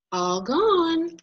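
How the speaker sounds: high, proud announcing call; trumpeted. Acted. Mom reassures child, high trumpeting announcement. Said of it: "I trumpet".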